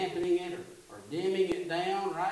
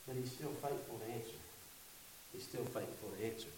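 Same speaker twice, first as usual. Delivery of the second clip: laughing; 7 semitones lower, 13 dB quieter than usual. Real, not acted. Laughs into the line.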